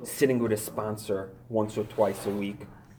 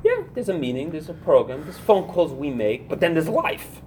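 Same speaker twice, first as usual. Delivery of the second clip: mocking wrong attitude; 6 semitones higher, 7 dB louder than usual.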